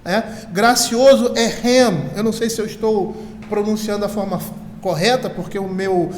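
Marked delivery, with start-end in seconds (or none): 1.5-2.1 "rem" as a Hebrew word, drawn out; slow, careful attempt at Hebrew "rem"; Hebrew pronunciation. Shown as a demonstration. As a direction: give "rem" slowly, as a cited Hebrew word. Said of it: "minha pronúncia de hebraico é horrível".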